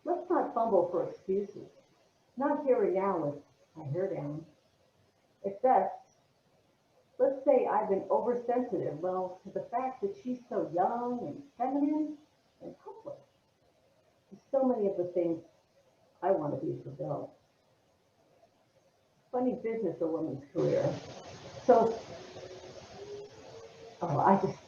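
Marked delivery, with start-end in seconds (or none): 0.1-4.4 soft, understated monologue opening; barely irritated. Acted. Actress opening her monologue, subdued, barely irritated. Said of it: "I think you're much more irritated". 5.5-20.8 soft, understated acting; subdued monologue. Actress rehearsing a monologue about career, soft and subdued.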